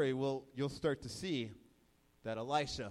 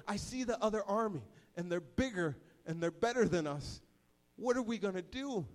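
mild frightened plea; 4 semitones higher than usual. Acted. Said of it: "He's terrified".

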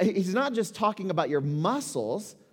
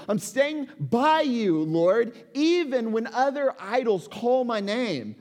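earnest prayer; 6 semitones higher than usual. Pretend. Preacher voicing the congregation's vow to God, earnest and raised. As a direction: declare it like a promise you mean. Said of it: "we're invited to see God and say".

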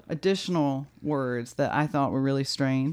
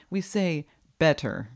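American better. Shown as a demonstration. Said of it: "with an American accent".

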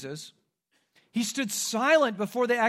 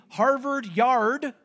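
Boston accent; 4 semitones higher, 5 dB louder, much slower than usual. Shown as a demonstration. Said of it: "we can tell where some of our church members have come from by their accent".

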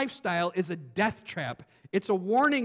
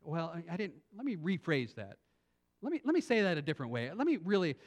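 backing down; 5 dB quieter than usual. Acted. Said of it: "so you back down".

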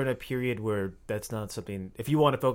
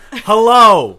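loud high drawn-out hello; a cheesy pickup hello; creepy hello; 10 semitones higher, 20 dB louder than usual. Pretend.

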